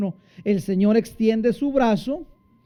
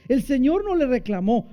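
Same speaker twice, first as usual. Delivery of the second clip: ordinary talk, nothing marked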